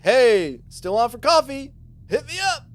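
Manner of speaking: loud, high, chirpy call-out; over-eager retold message. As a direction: act out a hopeful check-in. Acting out his hopeful follow-up message.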